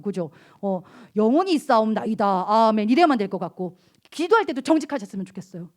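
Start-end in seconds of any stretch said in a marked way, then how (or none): 1.2-2.9 hammed-up pious prayer voice; lightly mock a solemn churchy prayer; mock holy voice. Pastor teasing the youth about fake pious prayers, mock holy voice. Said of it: "홀리보이스로".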